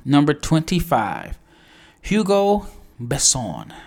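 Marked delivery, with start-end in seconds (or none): 2.0-3.7 Hugo Besson in a French accent, slow and high, stressed on the last syllable; French pronunciation. Shown as a demonstration. Announcing the draft pick with a French accent. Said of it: "I gotta get the accent part right".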